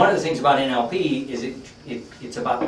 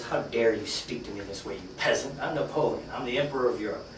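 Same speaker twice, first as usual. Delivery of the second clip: indignant emperor; 6 dB quieter than usual. Acted. Napoleon rebukes the nosy furrier.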